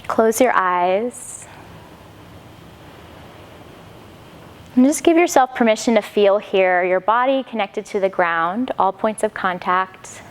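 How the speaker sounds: calm, unhurried instruction with long pauses; guided yoga meditation. Acted. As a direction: gently guide them inward, leaving space between phrases. Leads settling into meditation.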